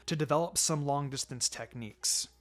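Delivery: a lightly voiced, steady teacher reassuring his pupil; understated sensei, gentle but firm; calm mentor. Kakashi plans training.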